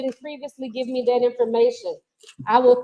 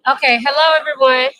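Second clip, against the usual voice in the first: calling out; 6 dB louder than usual. Real, not acted. Calling a room to attention.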